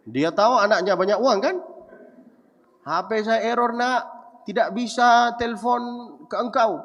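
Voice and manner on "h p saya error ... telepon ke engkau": put-on higher, pleading old father voice; imitating father. Father hinting he can't call his son, higher pleading voice. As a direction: play the father dropping a hint. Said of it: "dia bilang".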